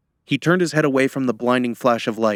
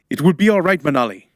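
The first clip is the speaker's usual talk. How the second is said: raised, higher, forceful voice; barked reassurance; 5 semitones higher, 5 dB louder, faster than usual. A narrator's reading. Ritual leader to frightened helper, barking. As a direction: bark it to override her protest. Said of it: "he barked".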